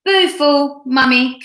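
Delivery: lightly voiced toddler cooing; cooing baby. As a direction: coo it like a toddler. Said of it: "cooed the baby".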